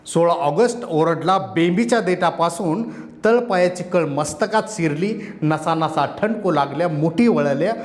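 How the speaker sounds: impassioned protest poem, rising and falling; poem recitation. Acted. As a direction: declaim it like a rally poet. Poet recites his poem.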